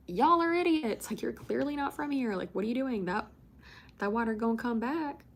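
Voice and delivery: retold incredulous scolding. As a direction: scold clueless strangers in a high, lilting voice. Calling out foolish beachgoers in a retold story.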